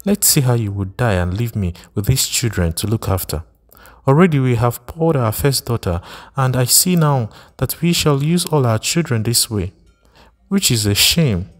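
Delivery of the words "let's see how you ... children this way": angry wife. Acted. Wife rages at husband.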